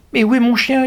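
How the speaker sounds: high, loud desperate cry; yelling. A narrator's reading. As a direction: scream for your dog. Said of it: "hurle Claude".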